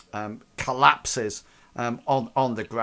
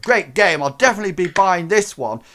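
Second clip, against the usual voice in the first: higher, louder, fast breezy boast; smug gamer; 6 semitones higher, 8 dB louder than usual. Acted. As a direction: toss it off on the way out. Crank smug farewell.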